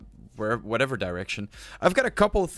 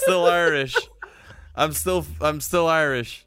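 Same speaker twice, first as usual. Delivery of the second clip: put-on Irish accent; 4 semitones higher than usual. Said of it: "That's some Irish one trying to".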